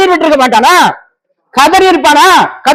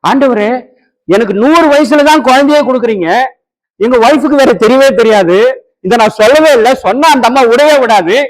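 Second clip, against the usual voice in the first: lightly voiced Abraham pleading. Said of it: "ஆண்டவர் சொன்னார்".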